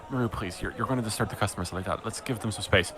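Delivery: softly spoken private plea; whispering. Acted. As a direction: gently shush her, keeping it quiet. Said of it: "you just hear her whispering to her".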